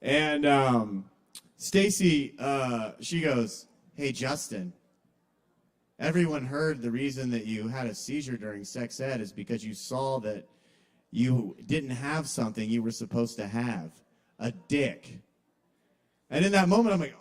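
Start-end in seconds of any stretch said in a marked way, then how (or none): 3.9-15.2 low, understated cruel delivery; imitated mean classmate. Classmate passing on a rumour to him, low and coolly mean. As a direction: quietly deliver the insult, pitched down.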